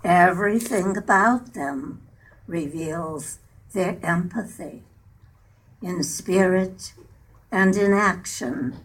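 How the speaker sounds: measured poem reading in short phrases; unhurried recitation, line by line; poem recital. Acted. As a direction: read verse aloud, pausing after each phrase. Recites her own poem.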